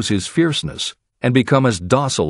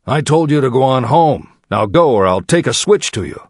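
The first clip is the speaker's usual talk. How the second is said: stern, raised-voice scolding; angry threat; 4 semitones higher, 4 dB louder than usual. A narrator's reading. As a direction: scold a disobedient child and threaten punishment. Angry uncle threatens the child.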